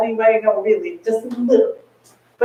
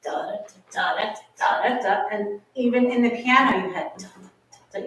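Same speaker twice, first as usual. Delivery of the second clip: soft piano; 9 dB quieter than usual. Shown as a demonstration. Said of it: "You had a place".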